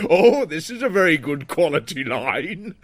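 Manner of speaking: imitating an elderly man; lightly voiced old man. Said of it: "he was like".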